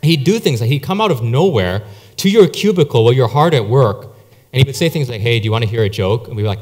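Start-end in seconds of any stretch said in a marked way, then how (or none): 5.2-6.3 low, brisk deadpan setup; deadpan serious. Retold or imitated. Friend springing a joke at your cubicle, deadpan. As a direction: imitate a straight-faced office joker, pitched down. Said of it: "in this deadpan, serious voice".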